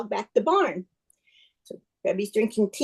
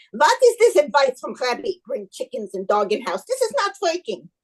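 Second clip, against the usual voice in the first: mock yelling wife. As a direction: scold your husband in a storyteller's half-yell. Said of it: "Hannah's yelling at Hoshila".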